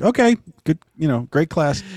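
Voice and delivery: a hint of a dismissive teacher; lightly voiced teacher ending class; bored teacher. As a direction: toss off the line, checked out.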